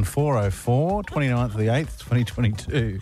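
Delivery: spelled out slowly as if writing it down; slow dictation. Shown as a demonstration. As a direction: read each number deliberately. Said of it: "I'm gonna write that down".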